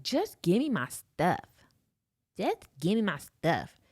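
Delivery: slow, spaced-out mock demand; curt demand. Woman turning on her companion, curt slow demand. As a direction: imitate her, drawing out each word.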